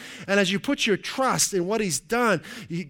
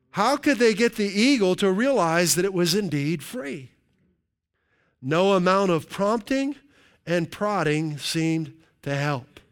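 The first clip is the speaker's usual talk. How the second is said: animated, raised storytelling read; story read aloud; 3 semitones higher, slower than usual. Acted. Preacher reads an eagle illustration to the congregation, animated storytelling. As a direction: read it out dramatically, punching key phrases.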